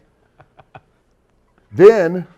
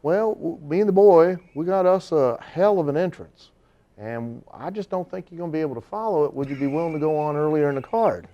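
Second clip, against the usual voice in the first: promoter's voice; 5 semitones higher than usual. Retold or imitated.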